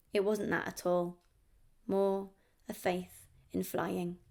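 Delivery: measured poem recital with pauses between phrases; poetry reading. Acted. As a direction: read it as a poem, line by line. Reads a poem aloud.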